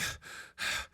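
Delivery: long unvoiced exhale, catching breath; heavy sigh. Real, not acted. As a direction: let out a tired breath. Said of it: "I'm breathing".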